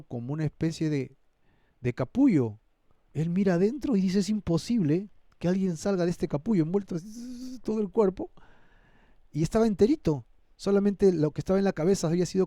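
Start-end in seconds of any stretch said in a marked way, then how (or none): 4.2-8.3 amazed disbelief. Acted. Acts out John's amazed reaction.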